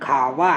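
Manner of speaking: teeth lightly on lip in "খাওয়া"; labiodental glide. Shown as a demonstration. Teacher recapping how it is pronounced, gliding "খাওয়া". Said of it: "এইভাবে উচ্চারণ হচ্ছে".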